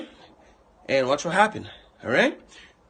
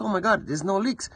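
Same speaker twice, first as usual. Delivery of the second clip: surprised; 6 semitones higher than usual. Retold or imitated. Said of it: "you're like".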